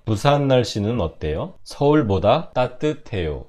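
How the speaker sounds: measured phrase-by-phrase Korean with pauses; slow shadowing read. Shown as a demonstration. Teacher reads Korean for students to shadow, slowly. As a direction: read slowly, pausing for learners to repeat. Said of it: "ゆっくりいきますよ".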